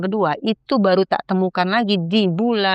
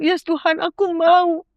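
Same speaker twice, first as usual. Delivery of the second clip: eager yes; 11 semitones higher, slower than usual. Retold or imitated. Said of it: "aku cuma bilang".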